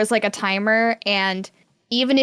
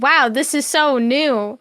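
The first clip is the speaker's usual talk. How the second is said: mock amazement; 2 semitones higher, slower than usual. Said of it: "being like".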